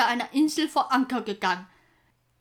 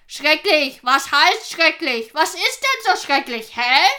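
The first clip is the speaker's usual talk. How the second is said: gruff bark. Acted. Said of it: "bellte Halvor unwirsch".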